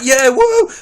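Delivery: high, whooping mock cheer. Film fan imitating a cheer at a fight scene, mock cheering. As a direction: whoop it up like an excited audience. Mimics upbeat reaction to fight.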